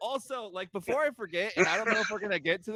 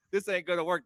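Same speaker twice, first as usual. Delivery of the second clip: imagined wrestler promo voice. Retold or imitated. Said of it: "That's not how he talks".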